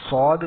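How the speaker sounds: "سواد" as a heavy sawd without w; thick saad. Shown as a demonstration. Teacher naming the letter for learners, heavy "سواد". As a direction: round out the vowel of "سواد". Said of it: "اس کو موٹا کر دیتے ہیں".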